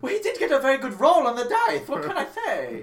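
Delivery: high and loud through laughter; laughing. Real, not acted. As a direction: laugh it out, amused. GM laughing at own joke.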